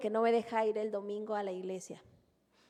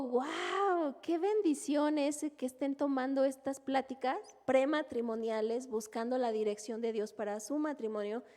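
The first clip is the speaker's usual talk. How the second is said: delighted wow; 2 semitones higher than usual. Retold or imitated. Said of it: "los escucho y digo".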